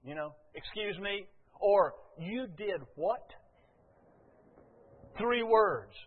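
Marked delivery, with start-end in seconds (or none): 0.5-1.3 softer, indignant aside; understated affront; pointed excuse me. Acted. Repeats the pointed short sentence. 2.2-3.3 slow, softer incredulous question; mock parental disbelief; disbelieving parent.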